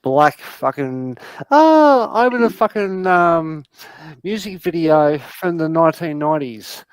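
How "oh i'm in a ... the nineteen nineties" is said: mocking teenage girl. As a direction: tease with a hint of teen-girl voice. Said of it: "Why do you sound like a fifteen-year-old girl".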